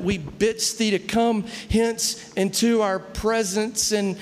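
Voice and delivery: slow, eloquent formal praying; drawn-out, lofty imitation of old-English prayer; mock Shakespearean prayer. Country boys praying at church like Shakespeare, slow mock-eloquence. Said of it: "we talked like William Shakespeare".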